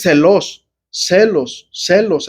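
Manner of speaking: "celos" con acento en la E; pronunciación griega. Shown as a demonstration. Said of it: "pero acento en la E". (palabra griega "celos", tónica en la E)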